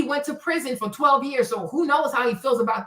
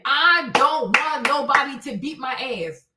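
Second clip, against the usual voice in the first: ordinary delivery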